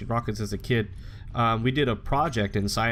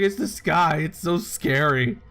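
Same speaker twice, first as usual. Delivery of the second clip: higher, louder mock-frightened child, slowing at the end; scared little kid; 5 semitones higher, 3 dB louder than usual. Boy tells mom the sky scares him, mock-frightened higher voice. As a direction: act out the terrified kid.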